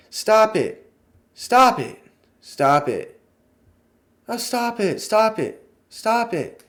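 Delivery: a strained sitcom wife's high repeated plea; eerie pleading. Retold or imitated. Missus Hart urging her choking husband to stop, eerie and high. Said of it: "it's so eerie".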